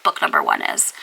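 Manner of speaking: fast, impatient mock viewer; imitating impatient viewer. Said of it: "you're thinking to yourself".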